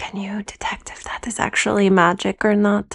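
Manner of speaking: whispered, in a put-on character voice. Playing a character who asks a companion a private question: whispering in character. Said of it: "whisper in her ear".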